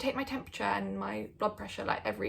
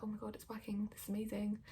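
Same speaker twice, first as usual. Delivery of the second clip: breathless whispered excitement; excited whisper; 7 dB quieter, faster than usual. Retold or imitated. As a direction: whisper it like a secret thrill. Excited private thought retold.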